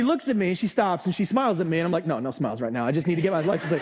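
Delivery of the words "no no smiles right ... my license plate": refusing the clerk's friendly smile, dead serious; stern. Retold or imitated. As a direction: shut the small talk down.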